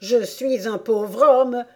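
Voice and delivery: moved, pleading voice; emotional. Acted. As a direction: plead with feeling, drawn out. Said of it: "commença le chapelier d'une voix émue".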